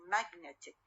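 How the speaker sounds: "magnetic" with the stress on NET; stress on middle syllable. Shown as a demonstration. Teacher explaining the shifted stress, NET stressed in "magnetic". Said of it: "الوسط ويصير المشدد".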